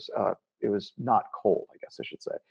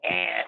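low buzzer noise; short mimicked buzz; imitated door buzzer; 6 semitones lower than usual. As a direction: make the noise of a gate buzzer. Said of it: "we went up and buzzed".

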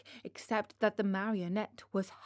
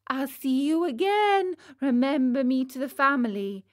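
raised, lightly acted calling-out; chick's farewell; 4 semitones higher, 5 dB louder than usual. Chick flying away from Pinocchio, mock farewell call. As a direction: call a cheery goodbye, starting high and loud.

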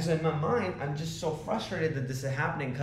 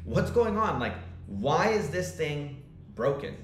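frustrated; 2 semitones higher than usual. Retold or imitated. Founder asking the head of development about a broken feature, frustrated. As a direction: demand an explanation, mildly fed up. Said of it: "actually frustrated me".

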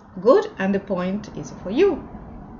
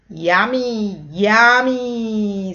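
monster yum; 5 dB louder, much slower than usual. Pretend. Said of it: "says the monster".

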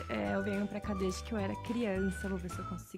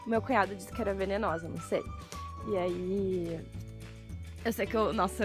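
excited; 6 dB louder than usual. Real, not acted. Excitedly retelling snake encounter.

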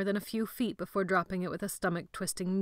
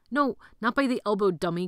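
exasperated yell; 2 semitones higher, 5 dB louder than usual. Acted. Boy scolding partner.

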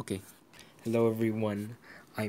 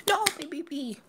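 whispered lament. Real, not acted. Consoling pet.

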